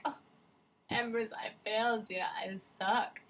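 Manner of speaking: loud, dejected confession in a put-on voice; defeated hero. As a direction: admit failure to the queen, hammed-up. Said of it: "he's like".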